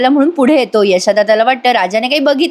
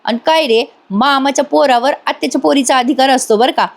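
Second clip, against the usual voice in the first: higher-pitched mock indignation; annoyed scolding; 4 semitones higher than usual. Girl telling her cousin to stay with her, annoyed. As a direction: complain with acted, mild annoyance. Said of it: "आता ती चिडून म्हणते".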